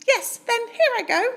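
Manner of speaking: a small bright-eyed mouse piping up; tiny mouse voice. Acted. Polite mouse asks Bear for cheese, squeaky high.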